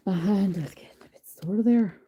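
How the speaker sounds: put-on Irish accent; amateur Irish lilt. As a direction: slip into a badly faked Irish accent. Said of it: "I've just went Irish".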